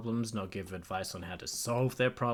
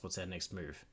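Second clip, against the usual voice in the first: reading the AI's line, stress on "our"; calm "our" in the AI's question; AI companion line; 4 semitones lower, 10 dB quieter than usual. Acted. Streamer reading the AI companion's question calmly. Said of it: "What do you mean, our next move?".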